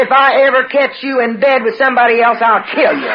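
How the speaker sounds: high, forceful retold threat; angry threat. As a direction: threaten a husband as he leaves. Acted threat in the quarrel.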